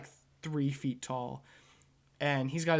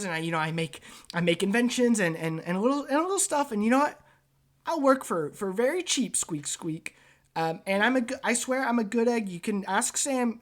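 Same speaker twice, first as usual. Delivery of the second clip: high, eager rat voice with squeaks; squeaky rat man; 4 semitones higher, 5 dB louder than usual. Acted. Rat inventor pitching himself to the director, high eager squeaks. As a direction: chatter like a nervous rat selling himself.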